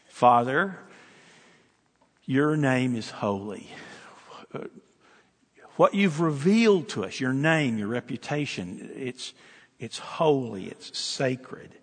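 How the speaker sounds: prayer. Shown as a demonstration. Pastor modelling a prayer for the congregation, hushed and reverent.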